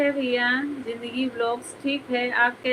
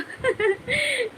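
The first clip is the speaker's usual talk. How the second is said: high squealing burst of laughter; helpless laugh; 12 semitones higher than usual. Real, not acted. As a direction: crack up completely. Bursts laughing during applause. (ज़ोर से फूटी हंसी)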